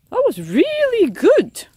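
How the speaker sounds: slow, high and delighted. Real, not acted. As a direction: savour the praise. Praising the recipe.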